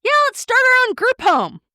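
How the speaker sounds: high, loud, thrilled cry; excited cheer. Retold or imitated. Imagined friends cheering their shared retirement plan, excitedly. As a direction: pitch it like a giddy rallying call.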